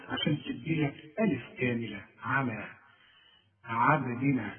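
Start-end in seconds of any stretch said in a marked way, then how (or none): 2.2-4.5 on على, stretch the final vowel; on عبدنا, stress the first syllable; Quran recitation demo. Shown as a demonstration. Teacher shows how على is recited. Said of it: "شوف، على".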